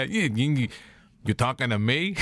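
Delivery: a hint of De Niro, lightly voiced; De Niro impression. De Niro impression for his co-host, only lightly voiced. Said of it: "'Cause you're doing Bobby".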